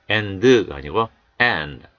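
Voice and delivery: and with d softened inside the mouth; weak d after n. Shown as a demonstration. Teacher showing the weak d in and. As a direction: swallow the d of and. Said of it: "약하게 입안에서만 처리합니다".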